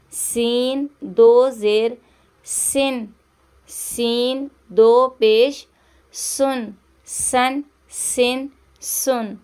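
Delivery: सीन with a sharp whistling s in every syllable; whistled s for a reading lesson. Shown as a demonstration. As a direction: hiss the s clearly in सन, सिन, सुन. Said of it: "इसमें सीटी की आवाज़ आएगी".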